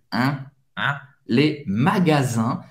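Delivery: "magasins" ending in a nasal vowel, no N; low-pitched "Un", well into the nose. Shown as a demonstration. Teacher isolating the nasal ending for learners, very nasal. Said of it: "I N tem o som bem nasal".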